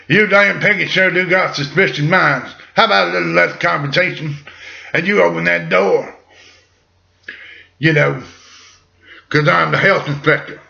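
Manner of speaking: lightly voiced wolf talking his way in; wheedling big bad wolf. Wolf poses as health inspector to get in, wheedling.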